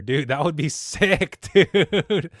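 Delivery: high, loud, drawn-out bro hype; hyped-up excitement. Pretend. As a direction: stretch it out with giddy, laughing enthusiasm. Joking excitement at Walmart idea.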